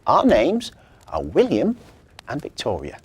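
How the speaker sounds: put-on child voice. William's voice in story.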